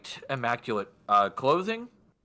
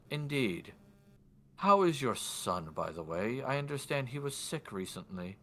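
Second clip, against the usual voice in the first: softly voiced, measured noble; a hint of courteous interrogation; lordly man in white; 5 dB quieter than usual. Lord asking about her son, lightly put-on soft formal voice. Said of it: "do my best for his voice".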